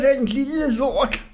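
high, slow, seething hiss with stress on sig; hissing threat. Acted. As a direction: spit out the revenge vow. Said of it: "hvordan han hvæsede".

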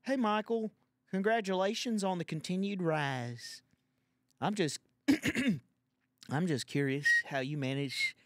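high, loud mock letter-reader voice; put-on fan voice. Reading out a teasing fan email, in a high loud put-on voice. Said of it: "I guess I'm gonna do this voice".

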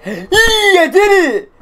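high, slow triumphant whoop; delighted victory yell; excited cheer. Real, not acted. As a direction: celebrate the win out loud. Cheering a win.

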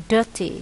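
"dirty" stressed on the first syllable. Shown as a demonstration. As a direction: say "dirty" with the weight on DIR-. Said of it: "nhấn âm một".

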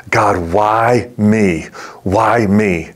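slow, drawn-out retold plea to God; anguished plea. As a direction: stretch out WHY in a mild lament. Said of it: "the question that bubbled up in his heart".

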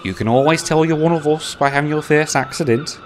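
lightly amused teasing; a touch of chuckling. Acted. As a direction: James teases Bear with a mild chuckle. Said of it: "he chuckled".

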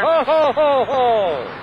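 loud hearty Santa laugh; belly-laugh like Santa; jolly ho ho ho. Acted.

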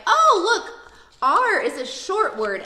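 put-on bright, high child's voice noticing something; excited child. Kid tells teacher in class, high and excited. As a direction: play the kid who spots it, then slow down. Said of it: "maybe they're like".

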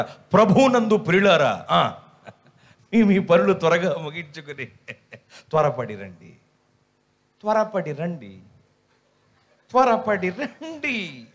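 slow, stretched-out village announcer; church mike announcement. Retold or imitated. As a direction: call the congregation over the loudspeaker.

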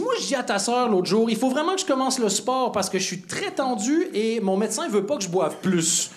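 lightly voiced exasperated brother-in-law; a touch of mock agitation; worked-up brother-in-law. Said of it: "comment mon beau-frère a raconté la même anecdote".

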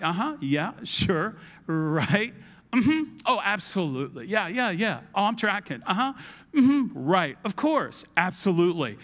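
mock agreeable stock replies; pretend following along. Lost listener answering someone firing questions, feigning that he follows. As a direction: toss out filler agreement with no real grasp. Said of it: "you find yourself just responding 'cause you're not tracking".

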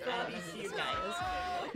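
ordinary talk

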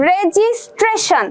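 রেজিস্ট্রেশন said very slowly, s then sh clearly apart; slow pron demo. Shown as a demonstration. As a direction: spell out রেজিস্ট্রেশন syllable by syllable, slowly. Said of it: "আমরা বলছি".

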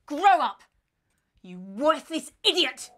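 loud, slow contemptuous insult; angry shout. Acted. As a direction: spit it at them, slowly. Scolding ends in insult.

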